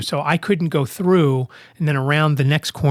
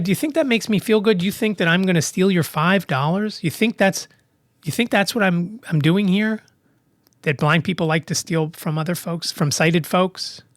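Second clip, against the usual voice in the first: really mad; 4 semitones higher than usual. Retold or imitated. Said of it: "And I was really mad".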